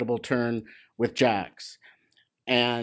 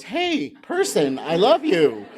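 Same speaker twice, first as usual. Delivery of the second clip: adoring dog voice; 6 semitones higher, 4 dB louder than usual. Retold or imitated. A handler voicing his dog greeting the trainer, high and adoring. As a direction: voice the dog's delight at the trainer, pitched way up. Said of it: "your dog goes".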